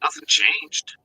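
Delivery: hollow distant phone audio; on speakerphone. Real, not acted. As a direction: sound as if in a tunnel. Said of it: "now it sounds like you're on speakerphone".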